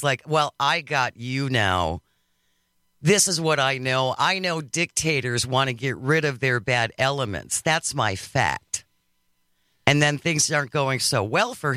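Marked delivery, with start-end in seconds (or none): 0.3-8.9 mildly smug imitation of a politician. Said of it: "he's got this smug look on his face".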